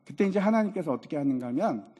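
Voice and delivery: ordinary talk, nothing marked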